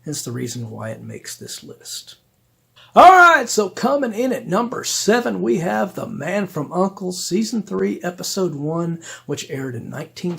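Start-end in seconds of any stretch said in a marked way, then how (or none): 2.9-6.0 excited. Real, not acted. Host opens next countdown entry.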